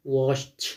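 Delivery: "watched" ending in T; teacher's model of "watched" with -ed as T; final T sound. Shown as a demonstration. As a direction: say "watched" as one syllable, watcht.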